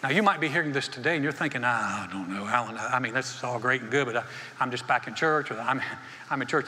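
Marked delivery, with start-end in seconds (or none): 1.6-6.7 lower, halting and unsure; hesitant doubter. Acted. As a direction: think aloud reluctantly, as a doubtful churchgoer. Voicing a doubtful listener's thoughts.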